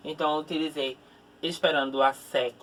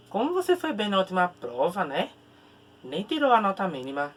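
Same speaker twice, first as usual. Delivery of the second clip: ironic. Acted. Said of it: "eu tô sendo bem irônico contigo".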